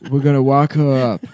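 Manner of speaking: lightly put-on, slurred impression voice; Donald Trump. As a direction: loose mock-politician voice. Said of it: "Trump with a retarded voice".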